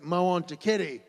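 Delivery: put-on loud, insistent little-kid voice; a small boy demanding a kitty; lightly voiced stubborn toddler. Dad voices toddler son.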